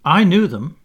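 annoying boast. A narrator's reading. John to the other boys, boasting to annoy. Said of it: "to annoy the others".

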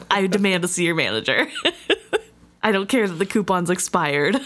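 laughing through an entitled customer rant; mock demand for the manager between giggles; playful Karen complaint. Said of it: "pictured Fitz with the typical Karen haircut".

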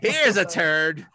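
slow, mock announcer introduction; Chris Collinsworth. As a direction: draw it out like a commentator. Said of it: "if he does play by play".

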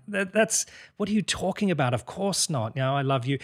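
high, incredulous reply; baffled wife, pitched well up; imagined wife's protest. Acted. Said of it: "she would be like".

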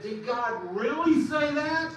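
a hint of a sly tempter, drawn out slowly; Satan's sly question. Preacher voices Satan questioning Eve, slow sly doubt. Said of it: "he said".

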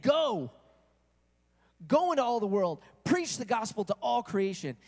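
mild commanding proclamation; with authority. Retold or imitated. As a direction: give the order like a commander. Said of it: "He said it with authority".

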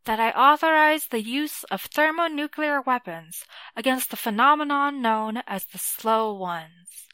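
lightly voiced president on TV, slow and grave; clipped, nasal president. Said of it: "clipped and nasal".

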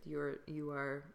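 hushed whisper of the teacher's words. Retold or imitated. Recalling the teacher's verdict, whispered. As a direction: breathe it out like a revered secret.

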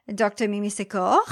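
"Secor" with a light French accent. Shown as a demonstration. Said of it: "I'm gonna say it in a French accent".

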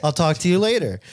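put-on high, overly proper kid voice; prim little boy. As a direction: play a stiff little businessman. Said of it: "I'm trying not to do a Jewish voice".

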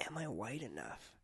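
very soft, slow self-questioning; thinking to oneself. Acted. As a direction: drop it right down, a slow private musing. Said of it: "I genuinely think to myself".

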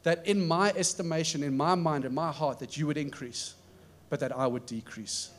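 soft, humble prayer to Jesus; quiet prayer. Shown as a demonstration. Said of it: "pray this prayer with me".

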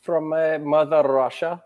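mock Russian accent, slowed down; bad Russian accent. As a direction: put on a hammy Russian accent. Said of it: "with a horrible Russian accent".

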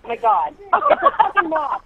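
phobic panic. Real, not acted. Moth panic continues.

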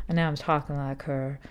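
light put-on Southern accent; imitated South Carolina accent. Shown as a demonstration. Talking like a college friend from South Carolina, light imitated Southern accent. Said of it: "She doesn't really talk like that".

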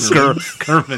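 a hint of a Polish accent on Germans. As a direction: Polish accent, slipped in by mistake. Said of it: "I was in my Polish accent".

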